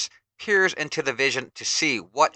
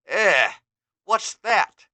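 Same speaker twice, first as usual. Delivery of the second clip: higher, startled question; surprised hero; 7 semitones higher, 6 dB louder, much slower than usual. Acted. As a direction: react to someone appearing.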